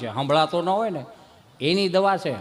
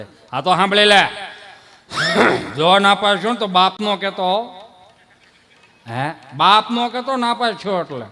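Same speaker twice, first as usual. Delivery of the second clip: loud warning; a father scolding his son; stern threat; 4 dB louder than usual. Acted.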